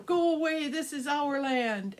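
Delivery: loud, high, then slow "this is our land"; second ogre chasing the dragons off; angry ogre shout. Acted. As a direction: roar it like a territorial ogre.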